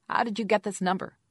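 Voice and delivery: high, loud squeaky demand. A narrator's reading. Caller challenges the investigator over the number, squeaky voice. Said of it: "a Jane with a squeaky voice said".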